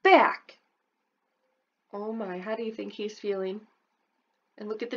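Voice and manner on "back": high, very slow, loud demand; demanding kid. Acted. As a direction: stamp it out word by word. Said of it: "you'll yell".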